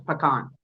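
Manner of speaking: pecan said "puh-KAHN", loud and insistent; "pecan" loudly stressed on KAHN; her own pronunciation. Shown as a demonstration. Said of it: "I say it my way".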